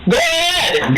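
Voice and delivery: high-pitched, furious challenge; angry shouted dare. Real, not acted. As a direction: dare him at the top of your voice. Detective in a heated quarrel.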